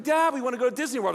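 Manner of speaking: a hint of a rushed, pestering child; pleading kids. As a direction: lightly imitate children begging their father. Kids pleading with their father.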